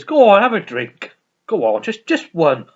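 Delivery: lightly voiced coaxing housekeeper; insistent hostess. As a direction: press a drink on them, starting high and loud. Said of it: "Missus Dawes says".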